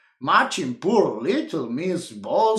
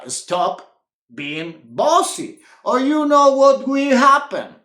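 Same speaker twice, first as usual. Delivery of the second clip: stern; 7 semitones higher, 6 dB louder than usual. A narrator's reading. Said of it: "said Wilfred sternly".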